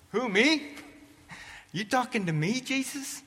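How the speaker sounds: can't believe he means you; shocked disbelief. Acted. Peter asked to sell everything, shocked high disbelief.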